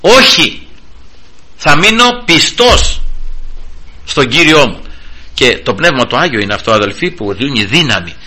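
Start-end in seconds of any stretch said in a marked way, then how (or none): 0.0-4.8 defiant refusal. Pretend. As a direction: refuse the devil outright. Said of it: "να αντισταθούμε στο σατανά και να πούμε". (αποφασιστική, δυνατή άρνηση προς τον διάβολο)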